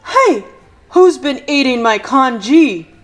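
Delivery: loud angry dad; father demanding answers; Mister Chan demanding. Acted. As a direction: bark it out, stressing who's. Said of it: "demanded Mister Chan".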